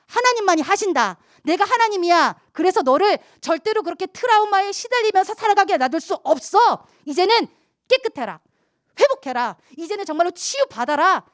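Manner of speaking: loud commanding proclamation; voice of God. Acted. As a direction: declare healing as God, full force. Preacher voices God's command. (하나님 음성으로 선포하듯 크게)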